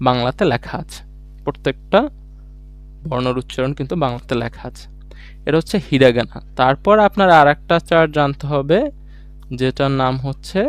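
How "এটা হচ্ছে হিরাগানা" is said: whispered aside. Real, not acted. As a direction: whisper this is hiragana under the music. Teacher names the chart again.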